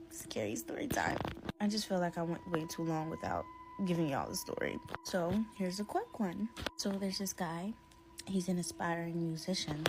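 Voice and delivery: talking with a swollen cheek; toothache. Real, not acted. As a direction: speak around a sore tooth. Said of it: "So I'm gonna be speaking weirdly".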